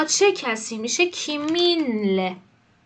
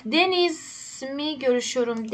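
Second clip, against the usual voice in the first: slow dictation read; much slower than usual. Shown as a demonstration. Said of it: "teacher reading Turkish slowly".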